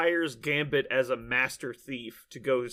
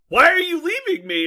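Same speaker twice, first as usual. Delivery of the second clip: put-on pleading girl; 9 dB louder than usual. Voicing abandoned girl on shore.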